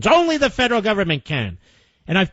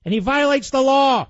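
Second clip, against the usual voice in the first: indignant retort; 5 semitones higher than usual. Real, not acted. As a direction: slam the truth back at the hedging. Host answers the mocked senator.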